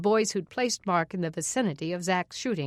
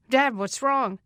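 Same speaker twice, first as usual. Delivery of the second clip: higher and louder, alarmed call; 5 semitones higher, 4 dB louder, slower than usual. Acted. Blake calls out to his galloping father, alarmed. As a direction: call out to your father on the horse. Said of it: "Blake called out".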